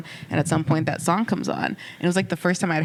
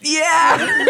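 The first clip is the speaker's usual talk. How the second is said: teary laugh; 11 semitones higher, 6 dB louder than usual. Real, not acted. Accepting the hug while crying.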